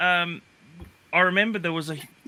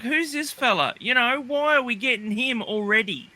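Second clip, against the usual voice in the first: puzzled; 6 semitones higher than usual. Retold or imitated. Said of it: "and I was like".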